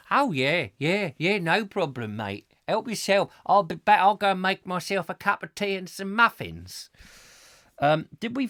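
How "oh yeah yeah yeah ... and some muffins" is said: louder, cheery mock-casual verger; careless verger. Retelling the verger's breezy reply, mock casual. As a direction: toss it off like the carefree verger handing over keys. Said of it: "he asks them and says".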